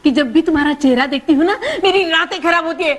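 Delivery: heated, complaining comeback; angry retort. Acted. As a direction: fire the insult straight back at your husband. Wife retorts in acted marital quarrel. (गुस्से में पलटवार)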